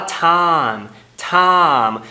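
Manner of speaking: time as tam with one vowel; monophthong. Shown as a demonstration. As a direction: drop the glide of time. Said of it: "fazendo essa monotongação".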